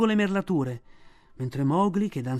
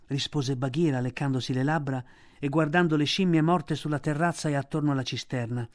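usual speaking voice

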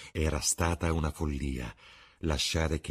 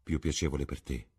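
murmured with regret; 3 semitones lower than usual. Acted. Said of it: "mormorò Basil Hallward con rimpianto". (mormorato con rimpianto)

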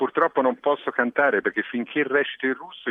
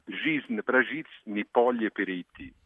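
reciting in Russian; much slower than usual. Pretend. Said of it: "che recita così in russo".

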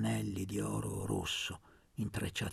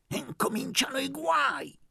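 high, loud yell; shouting; 14 semitones higher, 4 dB louder than usual. Acted. Aunt yelling as a vase shatters, shouting. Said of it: "urlò zia Maddalena".

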